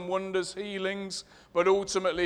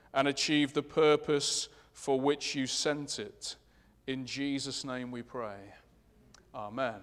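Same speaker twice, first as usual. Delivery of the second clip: prayer; 3 dB louder than usual. Acted. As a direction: pray aloud over the congregation. Leads the congregation in prayer.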